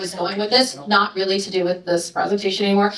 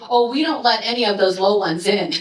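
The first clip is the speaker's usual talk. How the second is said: deadpan joke; 3 semitones lower than usual. Retold or imitated. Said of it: "he turns back and goes".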